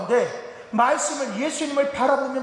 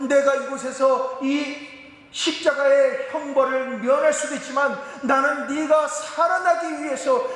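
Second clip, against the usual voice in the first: raised, solemn declaration; Jesus refusing to come down; 4 semitones higher than usual. Retold or imitated. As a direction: proclaim it like a vow from the cross. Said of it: "예수님이 십자가에".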